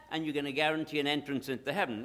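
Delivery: ordinary delivery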